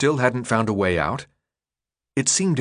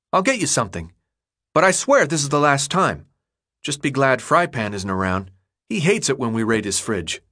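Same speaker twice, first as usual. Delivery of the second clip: higher kid voice, mock stern; a young boy laying down the law; grumbling boy; 3 semitones higher than usual. Chuck grumbling while fetching food.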